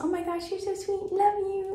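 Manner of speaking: put-on gushing, very high baby talk. Speaker showing how they praise their dog, imitating baby talk voice. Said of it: "Like the baby talk voice".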